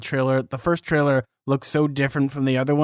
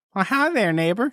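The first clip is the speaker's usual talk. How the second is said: high-pitched cartoon character voice, pitched up; 6 semitones higher than usual. Reading fan mail from someone named Gideon, doing a Gideon voice. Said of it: "that was a good one".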